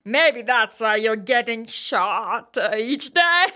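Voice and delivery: scornful laugh, then a sneering jab; mocking laugh. Bhopoo sneers at Big Bro's friends, laughing.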